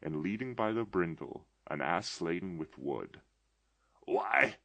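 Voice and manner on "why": high, loud cry of delighted recognition; an old man overjoyed by a childhood memory; ecstatic exclamation. A narrator's reading. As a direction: burst out in ecstasy. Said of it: "Scrooge exclaimed in ecstasy".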